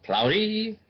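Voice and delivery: breathy whispered word. Real, not acted. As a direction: whisper it, half to yourself. Dark clouds coming over.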